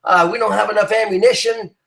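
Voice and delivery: a mild mock whine from a scared squad leader; whining leader. Scared leader to his outnumbered squad, mild mock whining. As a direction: whimper it lightly like a leader who has given up.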